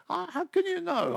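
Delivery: high-pitched retold disbelief; astonished mock outburst, pitch leaping up; incredulous outburst. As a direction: burst out high, challenging her claim. Retells his disbelief at sister's claim.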